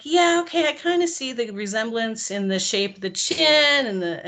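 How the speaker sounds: mock agreement, voice jumps high; high sarcastic yeah okay. Grudging agreement with alien.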